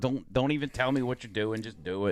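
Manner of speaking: ordinary talk, nothing marked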